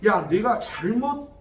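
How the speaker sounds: a stern divine shout; God calling out. Retold or imitated. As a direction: call out to Job slowly. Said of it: "하나님이 말씀하시는 거예요".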